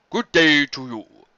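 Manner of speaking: slow, courteous creature voice; polite bear. Acted. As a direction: greet him gravely, taking your time. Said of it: "it said".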